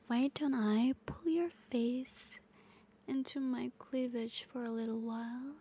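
hushed close-mic whisper; intimate whisper. Acted. Intimate ASMR roleplay whisper.

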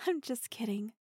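light chuckling gotcha. Acted. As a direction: laugh it off gently. Soft laughing reversal.

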